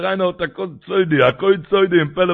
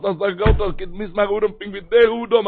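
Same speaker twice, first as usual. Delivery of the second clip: raised, insistent sermon voice; impassioned preaching; 5 semitones higher, 4 dB louder than usual. Acted. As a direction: drive the teaching home, pitched up. Preaches at full force.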